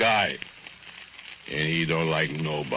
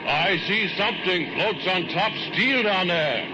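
much higher, sly lure; retold own words; 14 semitones higher than usual. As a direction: coax him to look, up high. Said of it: "Then you hear yourself say".

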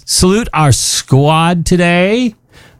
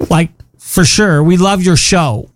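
put-on Valley Girl voice. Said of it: "Valley Girl thing".

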